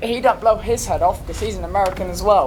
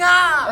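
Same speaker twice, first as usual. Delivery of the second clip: high mock "Ah" yell; mock scream; 7 semitones higher than usual. Describing game enemies again, high mock scream. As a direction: imitate a wordless scream. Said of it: "screaming, going".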